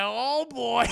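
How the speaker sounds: put-on high, loud, strained oh boy; a frightened priest's yelp; scared shout. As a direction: dread bursting out. Priest sees the thing on the wall.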